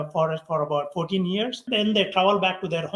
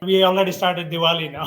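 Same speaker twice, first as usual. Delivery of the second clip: laughing; 4 dB louder than usual. Real, not acted. Family laughing in Diwali dress.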